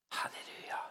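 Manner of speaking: breathy unvoiced hallelujah under the breath; whispered hallelujah. Real, not acted. Preacher whispering praise between sermon points. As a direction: murmur it to yourself, almost silent.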